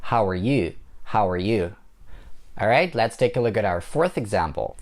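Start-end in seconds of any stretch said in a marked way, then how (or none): 0.0-1.7 weight on "you" in "How are you"; stress on YOU. Shown as a demonstration. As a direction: reduce "are", lean on "you". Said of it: "pronounce it a little bit louder".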